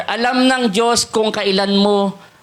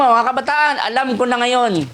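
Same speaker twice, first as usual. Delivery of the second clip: louder repeat; 3 semitones higher than usual. Shown as a demonstration. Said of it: "Sige po, sabihin mo".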